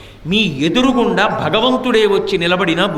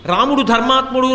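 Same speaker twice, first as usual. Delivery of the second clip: mocking Ravana; 4 semitones higher, 4 dB louder than usual. అంటావేంటి?.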